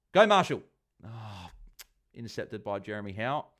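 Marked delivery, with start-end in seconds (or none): 0.1-0.6 high, loud shout of encouragement; excited cheer. Real, not acted. Streamer cheering his fantasy player on, real excited shout. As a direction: urge the player on at the top of your voice.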